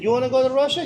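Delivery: put-on high, Eastern European accented owner; imitated Eastern European accent. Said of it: "when I'm doing the accent".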